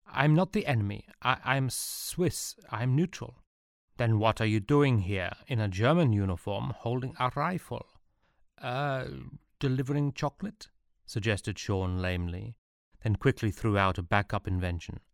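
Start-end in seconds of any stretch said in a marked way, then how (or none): 0.1-10.7 lightly voiced anxious soldier; higher, flustered denials; nervous young soldier. Sean's nervous voice.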